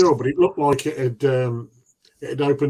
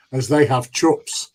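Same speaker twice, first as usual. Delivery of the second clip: put-on Kiwi accent; slower than usual. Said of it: "murdering accents again".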